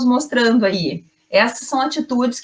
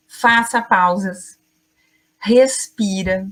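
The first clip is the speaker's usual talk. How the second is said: slow deliberate pauses; slower than usual. Shown as a demonstration. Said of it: "Se tu não tens um ritmo pausado, treina isso".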